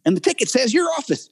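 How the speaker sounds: high-pitched, hammed-up redneck rant; weird redneck delivery guy. Delivery guy pestering a casting director in her office, weird redneck. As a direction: harass them as a comic redneck delivery guy. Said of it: "like this weird redneck delivery guy".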